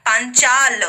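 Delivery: ordinary talk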